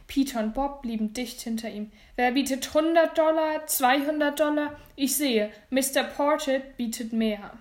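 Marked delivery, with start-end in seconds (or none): 2.2-7.5 raised, projected auctioneer's call; brisk public bidding call; auctioneer calling bids. Acted.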